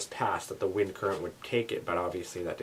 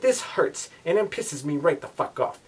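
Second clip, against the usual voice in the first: annoyed rant; 5 semitones higher than usual. Real, not acted. Annoyed about the sting.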